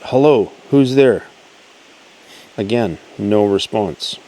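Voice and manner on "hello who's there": louder mock call into the trees. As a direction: call out to someone unseen by the creek. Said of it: "So I called out".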